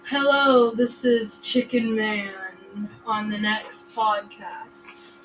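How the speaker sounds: slow, loud show announcer intro. Retold or imitated. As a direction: announce it like a radio host. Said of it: "And I say".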